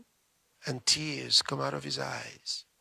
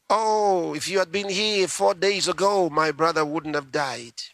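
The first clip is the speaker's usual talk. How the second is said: pleading Martha; 2 semitones higher, 4 dB louder than usual. Acted.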